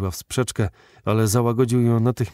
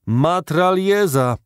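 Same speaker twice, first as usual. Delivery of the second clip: high, loud, slow drawn-out cry of the word; calling out; 9 semitones higher, 6 dB louder, much slower than usual. A narrator's reading. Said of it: "wołał J T Maston".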